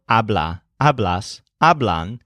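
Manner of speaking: habla, hablas, hablan, each stressed on the opening ha; stress on first syllable. Shown as a demonstration. Teacher listing present-tense forms, first-syllable stress on habla, hablas, hablan. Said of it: "The stressed syllable of most of these".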